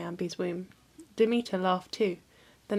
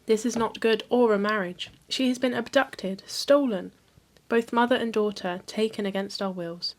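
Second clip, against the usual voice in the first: rising outrage, pressing each word harder; a grieving mother refusing to accept it; indignant protest; 4 dB louder than usual. Acted. Demeter tells Helios her daughter was stolen, with rising outrage.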